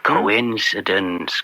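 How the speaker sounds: slow and low, knowingly dry; a drawn-out knowing murmur; sly understatement. Acted. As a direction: let the word hang slowly. Slyly brushing off the bribe link.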